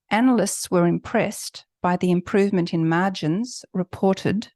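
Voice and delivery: "analysts" with its S and "reported" with its E D clearly sounded; clear word endings. Shown as a demonstration. Teacher modelling clear endings for students. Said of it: "So we're hearing the S".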